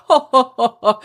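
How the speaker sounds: imitated jovial ho-ho chuckle; mock hearty chuckling. Dad coming out of the library with Langdon, mock chuckle. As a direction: act out a father chuckling along. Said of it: "chuckling, you know".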